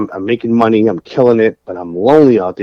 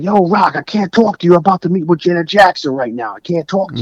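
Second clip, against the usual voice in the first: higher, hurried mock rapper brush-off; a rapper's voice; 7 semitones higher, faster than usual. A rapper brushing off the caller, mock hurried. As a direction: toss it off like a busy star. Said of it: "He was like".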